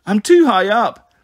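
put-on high, loud, drawn-out child's wail; frightened wail. A narrator's reading. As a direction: wail slowly in fear of the height. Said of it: "Bliss wailed".

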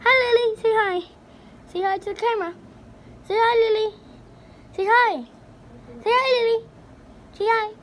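high, loud coaxing call; sing-song coax to a pet. Real, not acted. Coaxing cat to greet camera.

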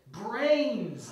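loud, high zombie call for food; high-pitched undead wail; zombie cry. Acted. Reader plays a zombie.

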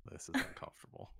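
hushed whispered echo; whispering. Real, not acted. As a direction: breathe it out in a whisper. Whispered echo of friend's line.

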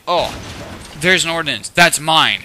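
a lightly voiced whiny kid claiming loot; mock them with a hint of a whine; mocking greedy kid. Mimicking kids who grab his ordinance, lightly whiny. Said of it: "they are just like".

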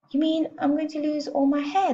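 high, horrified question; yelled. A narrator's reading. Husband fearing he will lose his hair, yelled. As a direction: wail it high in alarm. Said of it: "the husband yelled".

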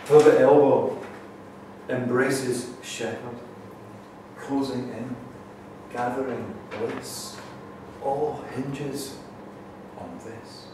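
spaced-out verse, hushed ending; poem recital. Acted. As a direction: recite phrase by phrase, fading on the last words. Reads own poem aloud.

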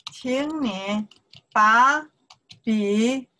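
word by word with drawn-out tones; deliberate teaching demonstration; slow model phrase. Shown as a demonstration. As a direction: space out each word for learners to repeat. Teacher models new sentence slowly.

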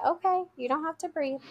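high-pitched, gentle backing off; calm reassurance. Retold or imitated. Teacher answering a refusing child, calm high-pitched reassurance. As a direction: let the child off easily, at normal volume. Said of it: "I would very calmly say".

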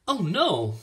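put-on dismayed girl's outburst; alarmed cry. A narrator's reading. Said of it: "cried Ellen".

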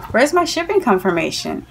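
politely pressing for an answer; restrained impatient question. Retold or imitated. First acted question to seller.

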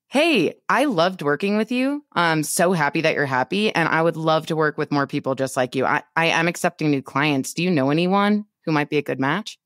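confident, clear ask; with full chest. Shown as a demonstration. Coach demoing the confident referral ask, firm and sure. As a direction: say it with conviction and own it. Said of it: "Do you hear the difference in my, like, conviction, my voice".

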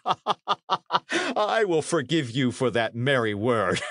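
slow, laughing through the words. A narrator's reading. Knight forgiving a soldier's jibe, laughing. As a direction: chuckle it out, amused. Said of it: "laughed a guffaw".

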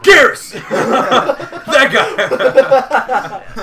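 loud, high triumphant cry; real delight, laughing; excited shout. Real, not acted. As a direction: burst out with the answer. Suddenly recalls the name.

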